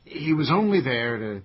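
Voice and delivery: mild contempt; scornful. Acted. Tenant describes murdered neighbour to friend, mildly scornful. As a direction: dismiss him with understated dislike. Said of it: "first you sound like you hate him".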